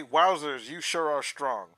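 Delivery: put-on wholesome 1950s kid. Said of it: "this kid just say".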